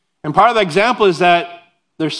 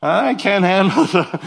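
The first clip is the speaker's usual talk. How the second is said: mock whiny prayer; 4 semitones higher than usual. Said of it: "that's how I kind of pray".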